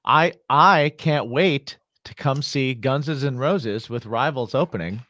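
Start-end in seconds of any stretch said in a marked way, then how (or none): 2.8-3.9 "Guns" said as two syllables, "Gunses"; teasing mispronunciation. Retold or imitated. Co-host teasing about the show, "Guns" as "Gunses". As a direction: deliberately double the plural on "Guns". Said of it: "who pluralizes guns?".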